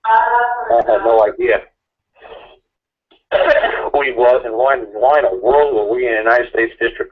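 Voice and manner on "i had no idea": drawn out much higher and slow; high, slow disbelief. Real, not acted. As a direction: sing it up in amazement. Disbelief at the courthouse trip.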